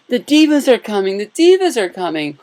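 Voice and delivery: high, loud gushing chant of the news; giddy excitement. Retold or imitated. Hotel clerk gushing to a guest about the Divas, high and loud. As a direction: squeal it like a starstruck fan. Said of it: "I'm not putting any extra emphasis on that".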